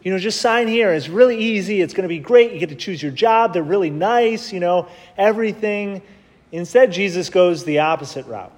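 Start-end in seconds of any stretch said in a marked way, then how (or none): 0.0-6.0 salesman pitch. Retold or imitated. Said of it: "unlike a good Navy recruiter".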